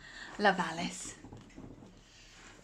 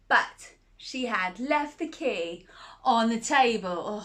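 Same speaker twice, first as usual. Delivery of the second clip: gentle storybook telling; reading to a child. Acted. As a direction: read it like a bedtime story.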